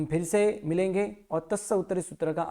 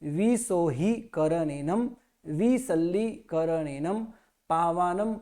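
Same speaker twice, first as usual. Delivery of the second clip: slow chanted prayer recitation; slow measured prayer chant; sutra recitation; slower than usual. Shown as a demonstration. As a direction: recite the sutra slowly and evenly.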